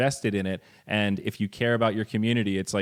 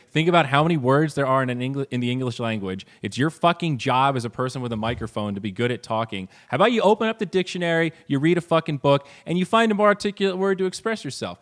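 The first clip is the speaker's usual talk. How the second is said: aggressive rant; 4 semitones higher than usual. Retold or imitated. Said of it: "He didn't say it that aggressively".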